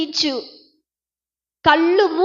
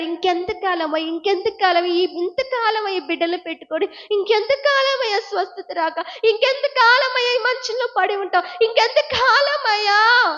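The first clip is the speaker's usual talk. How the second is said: acted tearful plea; 6 semitones higher than usual. Preacher voices a bedridden believer asking Jesus how long, acted tearful plea rising higher. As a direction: build a preacher's imitation of desperate pleading. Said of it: "అని ఏడుస్తున్నావు ఈ రోజున".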